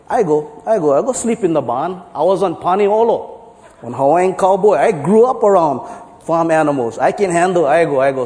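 lightly voiced Hawaiian pidgin, eager; a hint of pidgin, offering to take the barn. Hawaiian guy volunteering to the farmer, light pidgin accent. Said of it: "So the Hawaiian guy go".

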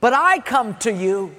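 mock shouted reply. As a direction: answer the giant with bold confidence. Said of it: "he shouts in reply".

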